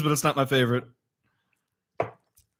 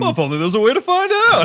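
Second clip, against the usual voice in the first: dripping with sarcasm; sarcastic; 6 semitones higher, 5 dB louder than usual. Retold or imitated. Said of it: "intense amount of sarcasm behind it".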